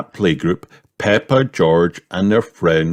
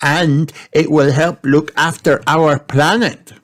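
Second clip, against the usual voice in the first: put-on high, bright little girl voice; a small girl's voice, pleased with herself; childlike piggy voice; lightly voiced Peppa; 8 semitones higher than usual. A narrator's reading. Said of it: "said Peppa".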